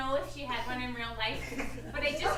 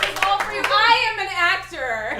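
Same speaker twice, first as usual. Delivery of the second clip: loud, high, slow laughing confession; laughing reveal; 4 semitones higher, 12 dB louder, slower than usual. Acted. Hired actor loudly confesses to Martha through laughter.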